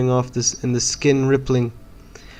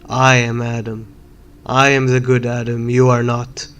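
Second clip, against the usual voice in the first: louder, insisting on who you are; defiant outburst; 4 dB louder than usual. Acted. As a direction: plant your feet and declare it loudly. Defiant outburst at ghost child.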